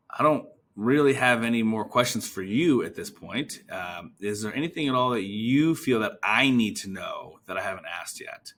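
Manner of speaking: "you" stressed as if passing the turn over. Shown as a demonstration. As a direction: lean on "you" in "questions for you". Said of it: "I put emphasis on the word you".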